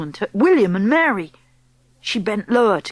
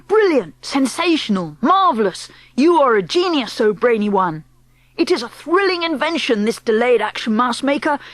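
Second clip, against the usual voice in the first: wild cheering crowd of witches; excited shouting; 4 semitones higher than usual. Acted. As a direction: cheer her on at full voice. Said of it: "clapping madly and shouting".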